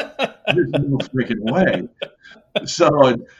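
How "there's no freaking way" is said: slow, drawn-out laughing refusal; no way, said slow through a laugh; laughing disbelief. Retold or imitated. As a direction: stretch it out, cracking up at the idea. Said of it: "And I'm like".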